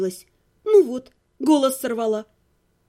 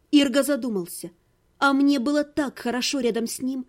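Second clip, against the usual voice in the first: usual speaking voice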